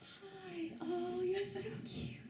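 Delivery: put-on high, soft cooing to a baby; baby talk. Cooing at a baby like people do with infants. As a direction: coo like talking to an infant. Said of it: "when you see people talking to infants".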